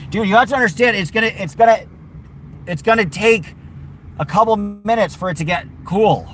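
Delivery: patient but fed-up explanation to a pet; exasperated explaining. Real, not acted. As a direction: talk sense into a stubborn dog. Explaining to impatient dog.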